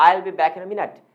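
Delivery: slow, with "minute" dropping away; slow down and sink on "minute"; falling intonation. Shown as a demonstration. Teacher repeating the falling example, "minute" slowing and falling. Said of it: "हमारी आवाज़ बहुत slow हो जाती है".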